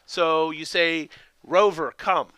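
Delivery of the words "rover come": firm dog command, name first; firm but gentle. Shown as a demonstration. Dog trainer showing owners how to call Rover, firm but gentle. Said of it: "in a firm but gentle tone".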